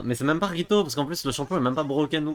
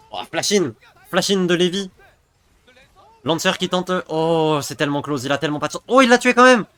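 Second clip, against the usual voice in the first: high, loud hyped play-by-play; fighting game announcer; 6 semitones higher, 8 dB louder than usual. Real, not acted. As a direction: scream the teamfight call. Casting a teamfight live.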